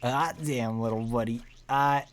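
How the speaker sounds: triumphant lovestruck glee; elated character. Acted. Character reads note elated.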